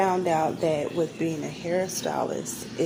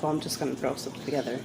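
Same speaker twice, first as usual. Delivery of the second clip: lazy careless voice; 4 semitones lower, much faster than usual. Pretend. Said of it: "and you're like".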